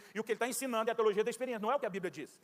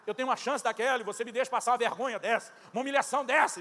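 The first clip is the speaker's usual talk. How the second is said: louder and rising, aggrieved; hurt believer protesting loudly to God; indignant complaint to God; 3 semitones higher, 5 dB louder than usual. Retold or imitated. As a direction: protest to God like you've been cheated.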